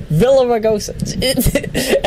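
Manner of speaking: Villaraigosa drawn out slowly; slow deliberate Villaraigosa; slow careful name. Shown as a demonstration. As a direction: stretch out Villaraigosa. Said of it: "that's a tongue twister".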